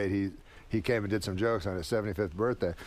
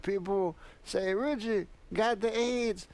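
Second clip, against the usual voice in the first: drawn-out Pryor impersonation pitched way up; Richard Pryor impression; 9 semitones higher, slower than usual. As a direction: Pryor jokes about his illness onstage.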